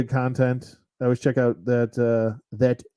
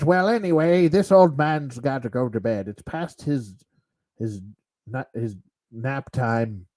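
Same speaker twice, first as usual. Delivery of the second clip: put-on old man Sean Connery voice. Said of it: "old man Sean Connery awkward voice".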